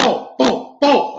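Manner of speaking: high-pitched boom, boom, boom; imitated banging. Investigator mimics the banging heard in the house, imitated booms. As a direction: voice the bangs as punchy high booms. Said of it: "And I hear a".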